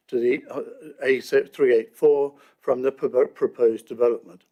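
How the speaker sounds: stuttering from a dry mouth; dry mouth, words catching. Real, not acted. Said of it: "I've got a ma-, dry mouth, so I'm stuttering".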